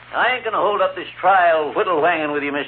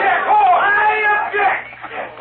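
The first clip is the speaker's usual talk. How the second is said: drawn out protest; much slower than usual. Acted. Prosecutor protests amid uproar.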